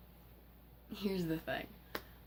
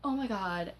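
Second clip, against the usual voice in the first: loud, high-pitched hammed-up panic; exaggerated outcry mocking their reaction; mock freak-out; 7 semitones higher, 5 dB louder than usual. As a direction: imitate hysterical shrieking, high and loud. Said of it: "having spaz attacks like".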